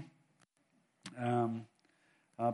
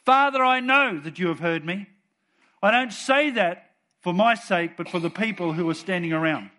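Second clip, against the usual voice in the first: bold prayer; 5 dB louder than usual. Retold or imitated. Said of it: "Jesus was bold when he prayed".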